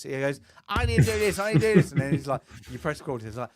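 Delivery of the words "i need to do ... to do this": higher, louder put-on posh English. Father mimicking his son's posh voice, posh and high. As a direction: imitate a posh-voiced child, pitched up. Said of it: "He has this posh voice".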